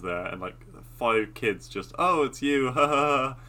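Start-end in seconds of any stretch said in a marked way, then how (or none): 2.0-3.4 higher, louder, breezy laugh through it; laughing greeting. Retold or imitated. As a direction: greet him with a carefree laugh. Kids cheerfully greeting armed cop.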